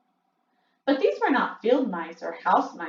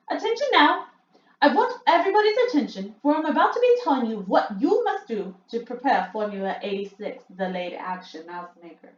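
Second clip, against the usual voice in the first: Grand High Witch; 4 semitones higher than usual. Acted. Grand High Witch commands the meeting.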